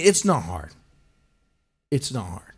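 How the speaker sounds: ordinary talk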